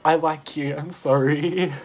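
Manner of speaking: placating apology. Retold or imitated. Teller placates the stranger hitting her, loud apology. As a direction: re-enact a loud, appeasing apology.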